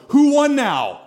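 loud, high mock-triumphant taunt; playful gloating shout. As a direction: crow over a beaten opponent in play. Dad gloats after tossing son.

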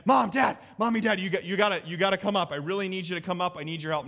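imitating a boy shouting for help; urgent child. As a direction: beg like an impatient four-year-old. Son calling again, more urgent.

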